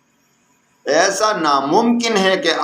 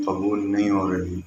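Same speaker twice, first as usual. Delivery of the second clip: usual speaking voice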